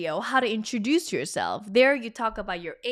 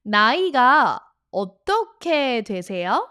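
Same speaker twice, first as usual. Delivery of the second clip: "나이가 어떻게 되세요?" with the tone up at the end; rising question tone; 5 dB louder, much faster than usual. Shown as a demonstration. Korean teacher models "나이가 어떻게 되세요?" for learners, rising at the end. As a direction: lift the final "되세요?" upward as a question. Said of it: "Put your tone up at the end".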